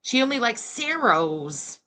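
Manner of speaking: slow mimicry of "Saros" as SAIR-ohz; mocked mispronunciation. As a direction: draw out "Saros", stressing the first syllable. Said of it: "say her own last name like that".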